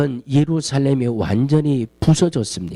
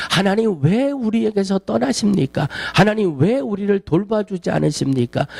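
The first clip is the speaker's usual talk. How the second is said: raised pleading complaint, a bit higher; people complaining to God; 3 semitones higher than usual. Retold or imitated. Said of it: "하나님 앞에 원망하고 투정 부리고". (하나님께 투정하는 백성처럼 조금 높게 호소하며)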